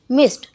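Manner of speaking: मिस्ड ending in a crisp T, "mist"; one syllable, मिस्ड as "mist". Shown as a demonstration. Teacher showing written D spoken as T, मिस्ड said "mist". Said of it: "लिखा डी हुआ है लेकिन बोला टी जाता है".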